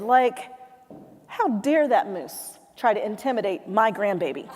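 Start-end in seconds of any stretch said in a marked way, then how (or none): 1.3-4.5 mildly indignant grandmother, imitated; aggravated grandmother. Grandmother about the moose, mildly aggravated. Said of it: "she's looking aggravated".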